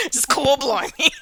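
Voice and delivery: hammy British "blimey" catchphrase; Cockney character voice. Shown as a demonstration. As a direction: show off a joke Cockney accent. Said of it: "that's how I do his voice".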